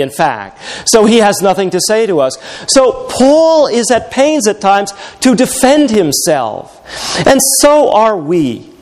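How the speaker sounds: ordinary talk, nothing marked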